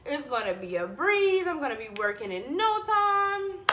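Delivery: high, cocky confidence; breezy and sure of herself; overconfident. Retold or imitated. Mocking her past self to the viewers, high and cocky. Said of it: "I'm like".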